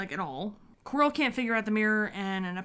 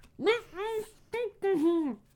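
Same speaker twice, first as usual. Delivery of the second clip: muffled, very high-pitched voice; 11 semitones higher than usual. Acting out a scene from the movie: muffled Voldemort voice. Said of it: "Voldemort's voice had been muffled before the turban was removed".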